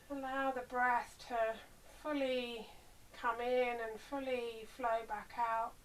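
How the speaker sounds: unhurried body-scan guidance with long pauses; guided meditation. Real, not acted. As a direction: ease them into rest, leaving space between phrases.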